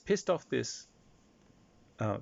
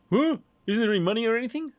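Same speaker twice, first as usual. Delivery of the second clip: high, loud and fast outrage; indignant disbelief; 13 semitones higher, 7 dB louder, faster than usual. Acted. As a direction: whine it like you were robbed. Player indignant after fairy vanishes.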